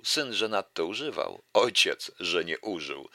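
lively recital of a verse fable; fable reading. Acted. Lecturer reciting a fable to the audience, lively recital. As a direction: read the fable out to the audience with relish.

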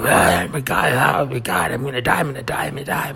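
high, hammed-up panicked wailing; dramatic panic. Comic acting out what dramatic means, hammed-up panic. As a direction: overact dying, pitch climbing, words tumbling out. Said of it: "It's like dramatic. We were like".

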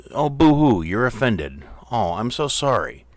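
mock sympathy whine; sarcastic boo-hoo, high pitched; fake crying. Mocking offended people.

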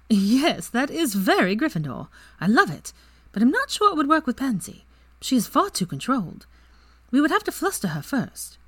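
scheming with glee; lively girl plotting with friends; excited Ginny. A narrator's reading. Ginny voiced by narrator.

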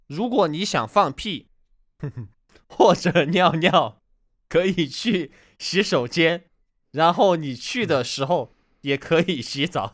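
barely holding in laughter; laughing through lines. Real, not acted. Reading the toilet dialogue, giggling through it.

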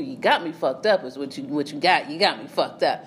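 low, menacing imitation of him; mock tough boyfriend. Boyfriend threatening her, low and menacing. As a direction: drop the voice to play him.

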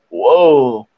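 low, drawn-out, groggy "whoa"; dazed imitation. Drunk friend coming round on the ottoman, dazed. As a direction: come to slowly as the drunk friend.

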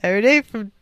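ad read. Acted. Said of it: "while I'm reading an ad".

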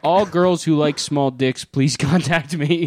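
put-on slow, lightly Filipino-accented read. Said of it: "I was doing a Filipino voice".

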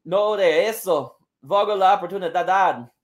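put-on indignant wrestling promo in a Spanish accent; Thunder Rosa, accented promo. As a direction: stretch the boast out, Spanish-accented. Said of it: "allowed to do this accent".

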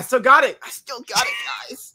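high triumphant shout; excited boast. Real, not acted. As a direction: crow it out proudly. Boasting call out.

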